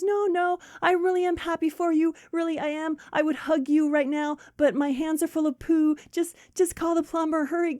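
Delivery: high, hurried reassurance; insistent friend. Acted. Friend with dirty hands reassures the other, frantic. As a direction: reassure her in a mock frantic state. Acted reassurance amid toilet emergency.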